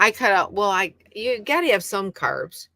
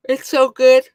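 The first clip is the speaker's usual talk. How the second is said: high, loud burst of delight; thrilled, loud and high "so good"; excited rave; 7 semitones higher, 11 dB louder than usual. Real, not acted. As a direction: gush over the taste. Raving about her keto shake.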